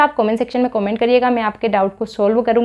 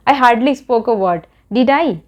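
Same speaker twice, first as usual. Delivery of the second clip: very slow, each word spelled out for learners; slow model sentence; much slower than usual. Shown as a demonstration. Teacher modelling a question tag for students, very slow and deliberate. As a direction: lay the sentence down word by word, then lift the tag. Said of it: "है ना?".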